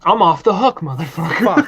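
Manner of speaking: real triumphant outburst; gloating triumph. Real, not acted. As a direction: crow it at your co-host, vindicated. Gloating on being proved right.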